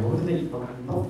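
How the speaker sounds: high, squawky chicken character; made-up chicken voice. Acted. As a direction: improvise a silly high-pitched chicken. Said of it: "that's kinda how I talked".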